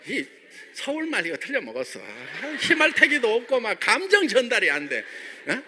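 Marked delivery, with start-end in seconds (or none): none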